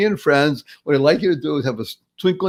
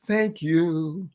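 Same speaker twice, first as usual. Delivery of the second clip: softer, drawn-out thank-you; restrained thanks; 6 dB quieter than usual. Shown as a demonstration. Stubbed toe at night, restrained thanks. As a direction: say it softly despite the hurt. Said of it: "You say".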